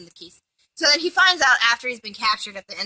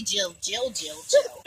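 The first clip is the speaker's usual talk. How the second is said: mock squeal; 7 semitones higher, slower than usual. Mocking name repetition.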